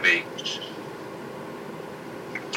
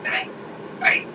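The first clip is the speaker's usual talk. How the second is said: hushed pope. Retold or imitated. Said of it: "Popes before him went".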